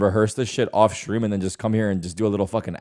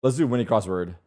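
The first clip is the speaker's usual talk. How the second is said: voice crack. Real, not acted. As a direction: voice cracking mid-word. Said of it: "Voice crack".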